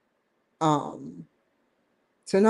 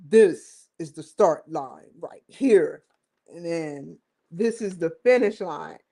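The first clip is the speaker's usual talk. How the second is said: 1 quoting him pointing at the map; 2 semitones lower than usual. Retold or imitated. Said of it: "he said".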